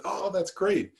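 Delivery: lightly voiced old woman, high and bright with glee; a mildly hammed-up delighted crone cheering; teacher voicing an old woman's delight in a story, high and gleeful. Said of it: "she started dancing around and said".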